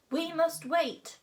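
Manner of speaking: high, slow dragon drawl; menacing purr. A narrator's reading. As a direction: draw it out with silky menace. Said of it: "purred Hook Fang menacingly".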